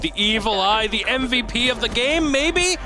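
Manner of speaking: excited. Real, not acted. Caster hypes a play.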